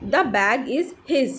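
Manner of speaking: very slow, separated words; deliberate teacher's example reading; repeat-after-me model. Shown as a demonstration. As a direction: model it slowly for learners to copy. Teacher models sentence for repetition.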